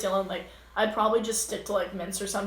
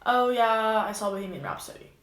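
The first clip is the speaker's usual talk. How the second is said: flat, uninterested. Shown as a demonstration. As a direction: shut the conversation down with a limp answer. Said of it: "Now, if I was just like".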